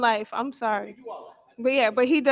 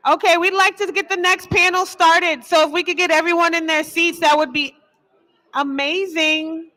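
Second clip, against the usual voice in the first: louder, firm call to the room; raised host voice; 3 semitones higher, 5 dB louder than usual. Real, not acted. Host calls the audience back to their seats, loud and firm. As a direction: push your voice out over the crowd. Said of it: "Gotta get that mom voice out".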